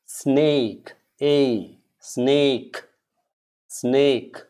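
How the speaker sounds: SNAKE slowly, long AY and crisp final K; model pronunciation. Shown as a demonstration. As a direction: drill snake with the K from the throat. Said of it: "The K has to come from your throat".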